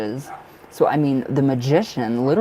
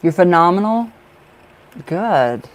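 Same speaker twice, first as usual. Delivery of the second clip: louder, higher, delighted praise; excited; 5 semitones higher, 7 dB louder, slower than usual. Real, not acted. Praising a viewer's answer, delighted. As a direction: cheer them on.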